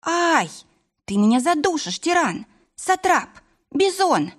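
high-pitched protest at being squeezed; playful squealed protest. A narrator's reading. Wife crushed in her husband's hug, high protesting. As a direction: cry out high, piling up the mock insults.

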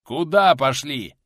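loud, drawn-out indignant retort; flaring up. A narrator's reading. Warrior objects to the sick man walking on, flaring up. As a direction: explode at the foolish suggestion. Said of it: "взвился в ответ дружинник".

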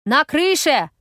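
loud, high cry from another car; distant shout. A narrator's reading. Strangers shout across lanes to warn about the roof, loud and high. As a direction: call it across moving traffic. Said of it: "долетает до меня бестелесный крик".

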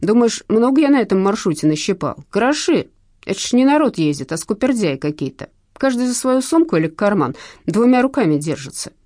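aggrieved moan about hard times; whining. A narrator's reading. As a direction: complain like a hard-done-by thief. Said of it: "заныл Шнурок".

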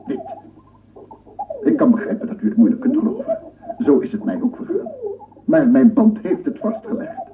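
thrilled to show his proof; excited presentation. Acted. Presents his discovery to gentlemen.

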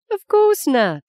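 mother firmly reassures her daughter; positively. A narrator's reading. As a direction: shut the question down with certainty. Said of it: "said Fee positively".

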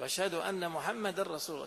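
"محمدا" with a clear -a, through a laugh; wrong case ending. Shown as a demonstration. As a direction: laugh a little while saying the wrong "محمدا". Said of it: "كأنه قال".

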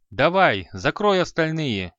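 loud call to keep going; shouted urging. Acted. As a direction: shout him on across the hall. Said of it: "крикнул Марита". (громкий ободряющий крик)

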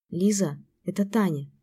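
usual speaking voice

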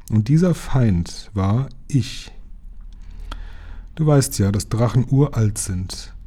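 lightly voiced sage dragon telling an old tale; measured dragon oratory, rising and falling; solemn dragon.

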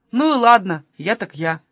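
mildly cross grumble; cross muttering. Acted. Kasper blamed by his friends, mildly cross muttering. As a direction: give in with a touch of irritation. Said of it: "сердито пробормотал Каспер".

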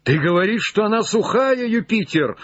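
high, agitated cry; faltering cry. Acted. Legrand questions Jupiter about the dry branch, faltering cry. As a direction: cry up with a breaking voice. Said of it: "закричал Легран прерывающимся голосом".

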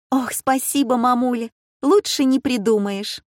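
высокий восторженный голос; благодари с восторгом; радостная дочка. A narrator's reading. Дочь радуется подарку. (дочь в восторге от подарка)

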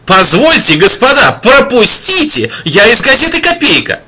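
loud, high reporter calling out; pushy reporter. A narrator's reading. Reporter pushing through the crowd, loud and urgent. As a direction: push through, shouting for room.

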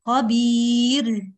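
خبير drawn out very slowly with a puff of air on the final ra; airy ra error. Shown as a demonstration. Teacher demonstrates the breathy ra mistake. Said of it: "طب أنت دفعتي هواء أهو".

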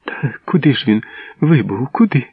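rising to a high, anguished cry; a mother begging to know where her son went; desperate plea. A narrator's reading.

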